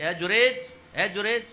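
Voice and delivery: loud call to someone inside. Acted. Old mother calling her son at prayer, loud call. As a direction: call his name across the courtyard.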